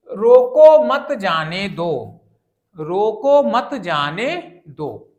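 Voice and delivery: "रोको मत जाने दो" slowly, word by word, no marked break; read without punctuation. Shown as a demonstration. Teacher reads the unpunctuated example, slow and deliberate "रोको मत जाने दो". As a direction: read "रोको मत जाने दो" as one evenly drawn-out, ambiguous string. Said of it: "कोई वाक्य के बीच में कोई विराम चिन्ह प्रयोग नहीं हुआ है".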